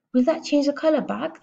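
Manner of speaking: high-pitched worried question; anxious. A narrator's reading. Father asking Matilda about his hair, anxious. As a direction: ask it high and fretful. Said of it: "the father asked anxiously".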